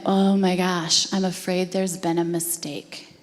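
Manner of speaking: slow, drawn-out dismay, retold; retold, heavy-hearted realization; moved reaction. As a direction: draw out the opening, then settle. Speaker retells own tearful reaction.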